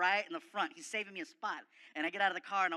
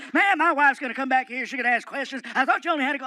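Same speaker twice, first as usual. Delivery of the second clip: loud, barking tough-guy voice; gruff Stone Cold voice; 5 semitones higher, 14 dB louder than usual. Retold or imitated. Wrestler calls to Fluffy from his door, loud gruff bark. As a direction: play the brash wrestler calling out. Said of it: "voicing Stone Cold scolding".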